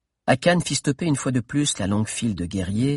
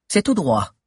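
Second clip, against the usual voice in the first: voix de Mordelia; 7 semitones higher, 3 dB louder than usual. Acted. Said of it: "fit Mordelia".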